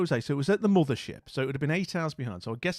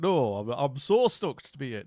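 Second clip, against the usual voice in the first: broad Yorkshire vowels; plain-pitched comic Yorkshire; Yorkshire accent. Acted. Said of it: "I'll do a Yorkshire accent".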